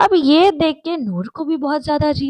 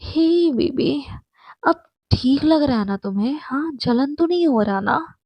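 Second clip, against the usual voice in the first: overly sweet flirty voice; mock sweet flirting; 3 semitones higher than usual. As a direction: coo at her like a lover putting on a show. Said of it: "बड़े प्यार से कहती है कि".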